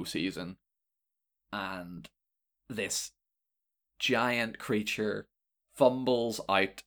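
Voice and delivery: slow, measured narration with long pauses; game master's scene setting. Acted. Game master describing a giant creature's arrival, slow narration. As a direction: unfold the scene slowly, piece by piece.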